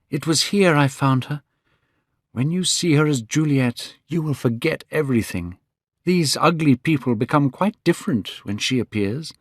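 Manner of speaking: put-on young Dorian Gray. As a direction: lift the voice for a young man in love.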